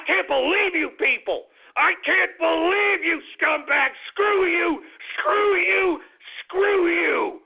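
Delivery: high furious shouting; angry shouting. Real, not acted. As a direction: yell it at them, fed up. Host shouting insults at audience.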